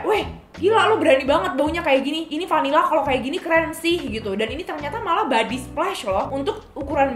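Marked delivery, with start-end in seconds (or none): 0.0-4.1 retold amazement. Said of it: "pas aku nyium juga kayak".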